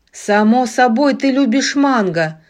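a hint of a sinister giant; lightly menacing giant voice. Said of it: "зловеще произнёс великан".

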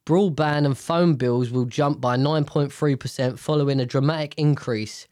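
blocked nose from sinus infection; nasal, stuffed-up voice. Real, not acted. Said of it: "I'm really sorry about the nasalness".

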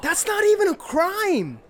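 high, drawn-out cry of disbelief; slow, squawking outrage; incredulous shout. Acted. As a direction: protest loudly at the absurdity. Bartender protests the absurd accusation.

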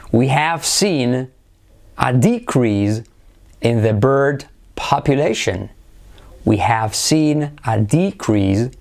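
DEcrease as a noun, slow model phrases; stress on first syllable. Shown as a demonstration. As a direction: lean on DE in decrease, word by word. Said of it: "acentuamos la primera sílaba". (decrease lento, con acento en la primera sílaba)

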